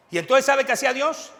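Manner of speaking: loud, high preaching call; fired-up pulpit question; rising preacher shout. Real, not acted. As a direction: lift the whole room with this question. Preacher building to climax.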